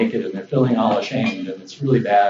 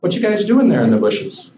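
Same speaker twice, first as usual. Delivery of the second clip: higher, casual puzzled question; friendly puzzlement; 6 semitones higher than usual. Retold or imitated. God finds Adam and Eve hiding, friendly puzzlement. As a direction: ask friends what on earth they're up to. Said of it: "looking for Adam and Eve to hang out".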